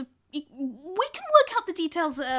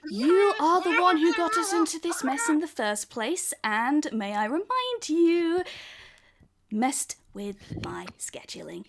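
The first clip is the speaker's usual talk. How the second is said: Frankie's voice; 5 semitones higher than usual. Acted. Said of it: "it's like".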